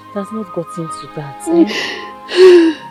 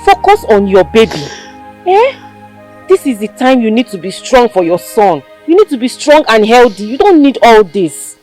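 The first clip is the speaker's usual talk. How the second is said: louder exasperated scolding; firm scolding; 2 semitones higher, 3 dB louder than usual. Acted. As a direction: scold her firmly to stop crying. Scolding crying new mother.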